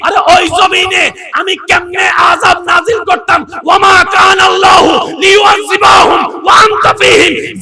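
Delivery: very high, slow, booming proclamation; voice of God answering. Acted. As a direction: proclaim the divine reply at full force. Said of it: "এবার আল্লাহ পাক বলে".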